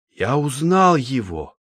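slow, mildly ringing announcement; sharp ringing exclamation. A narrator's reading. Chemist recognises the dead man, sharp ringing exclamation. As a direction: announce it crisply, drawn out. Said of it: "Голос Цветова резко прозвенел".

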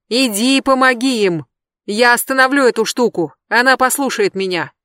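loud, high urgent shout. Acted. Adam orders Jeb to go, urgent shout. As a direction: order him to go now. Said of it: "закричал Адам".

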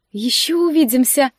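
a venomous little parting promise; sarcastic smirk. Acted. Necromancer sarcastically taking leave of the heroine. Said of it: "язвительно усмехнулась некромантка".

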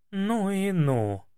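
slow, drawn-out amazed exclaim. A narrator's reading. Hostess marvelling at the tall youth, drawn-out exclaim. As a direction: savour the amazement slowly. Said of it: "воскликнула хозяйка".

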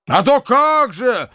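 high, loud and slow, voice changed; startled exclamation. A narrator's reading. Bakhcheev jolted awake answering the uncle, loud cry. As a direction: burst out, suddenly roused. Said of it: "вскричал Бахчеев, встрепенувшись".

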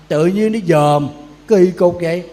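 slow, loud, indignant scolding. Real, not acted. Monk scolding nosy donors, slow and loud. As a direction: drag out the scold loudly.

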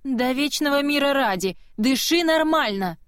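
sharp order. Acted. Woman ordering choking Kiva to breathe, loud impatient command. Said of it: "приказала женщина".

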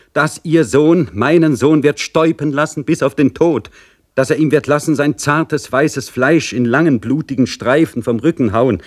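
high, keening reproach of a mother; impassioned lament. Acted. Mother threatens to tell the general's mother of the flogging, anguished.

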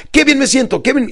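high, energetic exclamation; enthusiastic. Retold or imitated. Coach walking client across the office, enthusiastic. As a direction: proclaim it while on the move. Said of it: "pero con entusiasmo".

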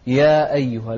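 يا أيها with a light alif and crisp hamza; distinct glottal stop opening أيها; clear hamza. Shown as a demonstration. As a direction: separate ya and ayyuha in يا أيها. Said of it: "ووضح كذلك الهمزة".

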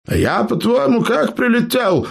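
high, smug and proud; proud question. Acted. Eber asks his clanmates proudly, high smug. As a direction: ask as if it's obvious. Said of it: "гордо спросил Эбер".

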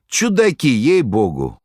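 light exasperated exclaim; amused shrug. A narrator's reading. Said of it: "пожав плечами, проговорил артист".

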